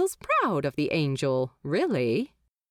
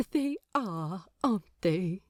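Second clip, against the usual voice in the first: softening fondly; 3 dB quieter than usual. A narrator's reading. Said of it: "Aziraphale softens momentarily".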